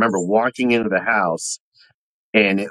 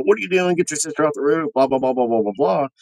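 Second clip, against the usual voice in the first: high-pitched retold scolding, easing down into blahs; mock scolding yell; 5 semitones higher than usual. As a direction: imitate a dad telling off a kid without really shouting. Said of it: "I'm yelling at my other kid".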